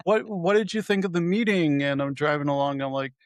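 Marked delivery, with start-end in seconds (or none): 0.0-1.8 higher, insistent retold question; pressing mock girlfriend. Girlfriend presses him on the drive home, higher and insistent. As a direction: push the question at him again.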